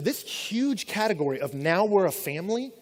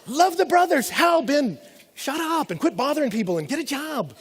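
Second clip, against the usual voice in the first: blunt brush-off; 6 semitones higher than usual. Retold or imitated. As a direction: snap it back like a fed-up teacher. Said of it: "not the most passionate text".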